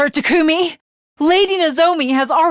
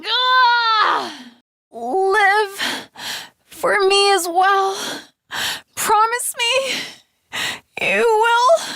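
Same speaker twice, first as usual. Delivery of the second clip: dying plea; 4 semitones higher, much slower than usual. Acted. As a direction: beg him with your last breath.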